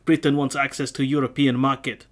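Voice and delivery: mock French accent slipping toward Russian; a light French accent that drifts Russian; drifting accent. Reading the quote aloud, accent drifting Russian. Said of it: "I'm sounding Russian now".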